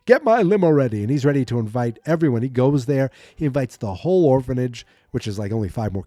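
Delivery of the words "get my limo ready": louder, higher imitation of an order; mock commanding call. Governor deciding to invite the kids, mock commanding call. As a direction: play the governor calling out orders.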